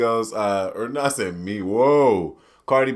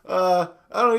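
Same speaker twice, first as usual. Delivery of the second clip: higher, polite white-guy voice; 6 semitones higher than usual. Pretend. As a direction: argue politely like a white husband. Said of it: "I use my white voice".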